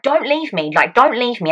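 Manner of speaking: mildly acted frightened pleading; scared plea. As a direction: beg them to stay, acting it out. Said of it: "I was so scared".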